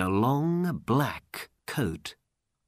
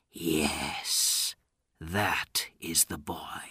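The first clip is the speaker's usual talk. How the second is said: hushed and lower, almost whispered; quiet aside; 4 semitones lower, 5 dB quieter, much slower than usual. A narrator's reading. Old man watching Aladdin from afar, quiet aside. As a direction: murmur it privately. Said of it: "he said quietly".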